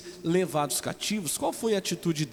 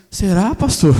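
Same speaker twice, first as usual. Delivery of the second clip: hopeful sister; 2 semitones higher, 13 dB louder, slower than usual. Retold or imitated. Sister's hopeful reply, laughing.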